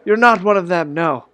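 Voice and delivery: put-on a relieved old stranger explaining himself; lightly voiced old man tells his story. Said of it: "He's like".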